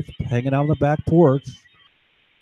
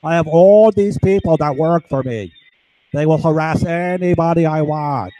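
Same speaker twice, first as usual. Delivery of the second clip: a hint of a puffed-up big shot; mock swagger of a self-important dealer; smug drug dealer. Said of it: "The dumbass drug dealer thinks".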